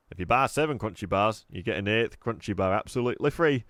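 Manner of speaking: jolly salesman pitch, lightly voiced; cheery shopkeeper. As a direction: sell the stale sweets with a grin. Raj reciting a special offer.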